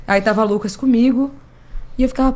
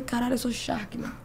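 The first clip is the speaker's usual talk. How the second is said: stunned disbelief; 3 semitones higher, 13 dB quieter than usual. Retold or imitated. Caiu a ficha na fila do brinquedo.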